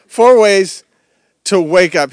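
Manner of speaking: preacher announcing four points to church; loud announcement. Real, not acted. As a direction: call out the heading. Preacher announcing his points loudly.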